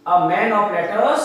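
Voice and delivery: slowly repeated for note-taking; slow dictation. Shown as a demonstration. Teacher repeating the phrase for students writing, slow dictation. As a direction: say "a man of letters" slowly and evenly. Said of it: "आप लिख लीजिए इसको".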